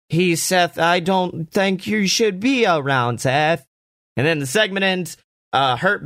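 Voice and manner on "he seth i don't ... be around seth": bad acting. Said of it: "Aaliyah is bad at acting and says".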